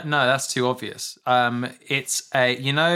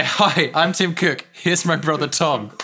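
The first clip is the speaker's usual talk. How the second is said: hint of a keynote presenter; Tim Cook impression; 3 semitones higher, 3 dB louder than usual.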